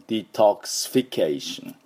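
"デトックスフィケーション" as dee-tahks-fi-KAY-shun; English word demo. Shown as a demonstration. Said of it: "音ですね".

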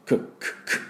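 unvoiced く, the sound not to use; whispered く as the wrong vowel. Shown as a demonstration. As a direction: breathe out く without voice. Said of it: "くじゃありません".

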